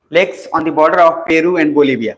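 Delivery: drawn-out, deliberate note-giving; slow dictation. Real, not acted. Teacher dictating a lake heading to students, slow dictation. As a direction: dictate it slowly, word by word.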